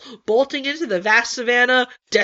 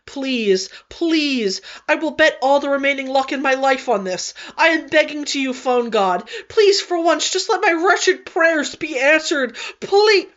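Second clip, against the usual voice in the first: desperate pleading; 3 semitones higher than usual. Acted. Desperate prayer to phone god.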